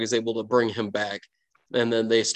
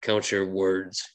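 deadly quiet threat; 3 semitones lower, slower than usual. Acted. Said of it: "deadly force you have never seen".

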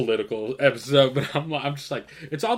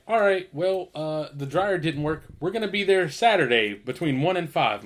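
higher-pitched mimicked installer; installer caller; 4 semitones higher than usual. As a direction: imitate the installer announcing a schedule. Voicing the installers' scheduling call.

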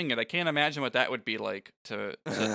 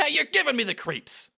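much higher, teasing mock cackle then line; mock her freak-out; hammed-up mocking voice; mocking imitation; 12 semitones higher, 4 dB louder than usual. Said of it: "mocks it and goes".

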